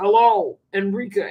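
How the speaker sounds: loud, creepy, altered, disguised monster voice. Acting out a caller disguising their voice on the phone: disguised monster voice. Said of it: "disguise their voice".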